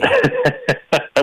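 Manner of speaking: short amused chuckle; real, spontaneous burst of laughter. Real, not acted. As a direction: laugh briefly at the interruption. Amused by mattress resale objection.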